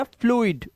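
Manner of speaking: फ्लूइड as "floo-id"; "oo-ee" sound. Shown as a demonstration. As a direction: model फ्लूइड with two vowels, उ then इ. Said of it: "उई की आवाज आई है".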